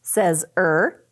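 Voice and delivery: drawn-out er sound. Shown as a demonstration. Teacher modeling er for first graders. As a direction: say the er sound clearly for the class. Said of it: "let's say that again".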